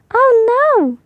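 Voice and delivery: high, loud alarmed cry; cried out. Acted. Peppa alarmed at the gap in her teeth. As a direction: gasp it out in dismay. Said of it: "she cried".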